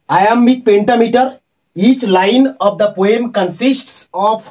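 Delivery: slow, deliberate reading of notes; slow dictation. Acted. Teacher dictating sonnet notes to students, slow and measured. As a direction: read it out slowly so the class can copy it.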